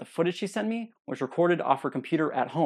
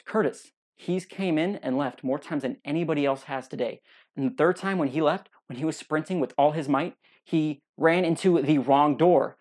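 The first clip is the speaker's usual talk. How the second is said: mean. Retold or imitated. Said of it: "Kylie said this really mean".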